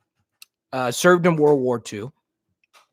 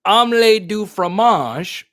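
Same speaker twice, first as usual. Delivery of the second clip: slow; 5 semitones higher, 5 dB louder, slower than usual. Shown as a demonstration. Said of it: "you know".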